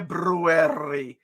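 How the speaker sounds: February with the first r said, slowly; February said slowly as Feb-ru-ary; slow careful February. Shown as a demonstration. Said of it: "But instead, it's February".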